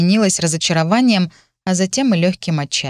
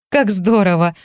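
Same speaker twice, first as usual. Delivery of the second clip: delighted. Acted. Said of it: "восхитилась я".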